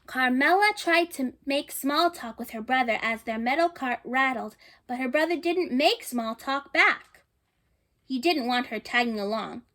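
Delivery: gentle read-aloud storytelling voice; storybook narration. A narrator's reading. Reading a picture book to children, storybook narration. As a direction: read the story to the little ones.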